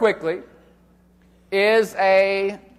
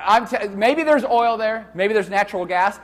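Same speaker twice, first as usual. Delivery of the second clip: ordinary talk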